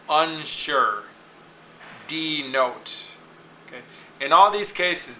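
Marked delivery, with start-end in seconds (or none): 0.1-1.0 unsure in two parts, SURE stressed; stress on second syllable. Shown as a demonstration. Teacher listing example words, unsure with SURE stressed. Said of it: "the sure and the note". 2.1-3.1 denote in two parts, NOTE stressed; stress on second syllable. Shown as a demonstration. Teacher listing example words, denote with NOTE stressed. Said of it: "the sure and the note".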